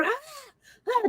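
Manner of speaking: high wordless cries, softly mimicked; a quiet mock of a woman screaming; retelling a ghost's scream in a hushed high voice; imitated scream. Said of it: "screaming at the top of her lungs".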